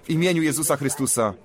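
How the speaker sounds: fervent prayer voice, laying on hands; earnest prayer. Real, not acted. Preacher praying for a woman's healing, earnest prayer. Prays for the brother.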